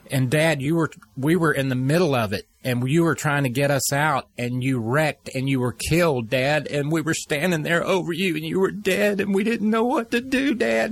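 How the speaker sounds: father retelling his son's nightmare in the son's tearful voice; imitating a crying son. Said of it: "And he starts crying".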